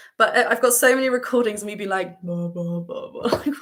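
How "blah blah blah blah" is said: very low, deep-register drone at bottom of range. Showing how recordings of their lower register sound, in a very low register. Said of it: "all the way down there".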